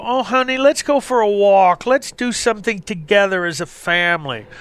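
coaxing wife. Retold or imitated. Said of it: "the women will come to you and go".

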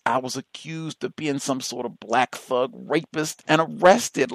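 ordinary delivery

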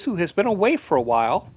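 ordinary talk, nothing marked

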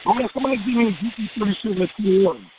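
talking while chewing gum; words round a wad of gum. Real, not acted. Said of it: "You sound like you're chewing bubble gum again".

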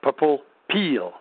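peel said slowly as pill in a southern accent. Shown as a demonstration. Explaining the southern way of saying pill. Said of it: "Peel was pill".

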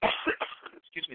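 hiccups. Real, not acted. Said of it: "I have the hiccups".

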